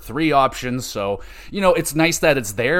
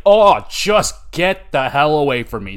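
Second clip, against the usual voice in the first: louder disgusted groan into words; exasperated rebuff; 5 dB louder than usual. Retold or imitated. Reviewer recoiling from an unwanted come-on, exasperated. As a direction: push him away, fed up. Acted repelled reply to the suitor.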